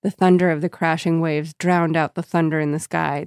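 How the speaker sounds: ordinary delivery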